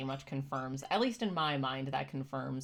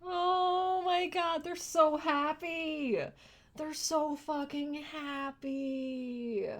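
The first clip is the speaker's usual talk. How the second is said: high, slow, choked-up happy tears; tearful joy; 12 semitones higher, slower than usual. Real, not acted. Watching the freed chimps, choking up with happy tears. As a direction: let the voice crack with joy.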